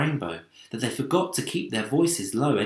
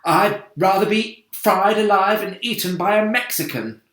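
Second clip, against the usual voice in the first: wailing; 9 semitones higher, 8 dB louder than usual. A narrator's reading. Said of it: "wailed the old green grasshopper".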